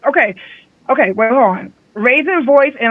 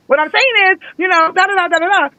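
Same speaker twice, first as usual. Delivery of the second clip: mock heated explanation, pitched up; imitating an emotional speaker; 7 semitones higher than usual. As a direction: play someone who just got emotional, not aggressive. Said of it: "Sometimes they be like".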